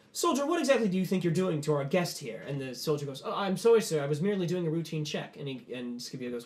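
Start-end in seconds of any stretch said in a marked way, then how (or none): 0.1-2.4 stern reprimand. Acted. General dresses down a soldier. 3.2-5.4 flustered apology. Acted. Soldier apologises to the general.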